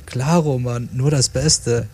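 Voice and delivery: casually certain, slowing down; mildly confident, drawn-out promise; assured. Acted. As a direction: reassure firmly, taking your time. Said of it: "entgegnete Weedy ihr bestimmt".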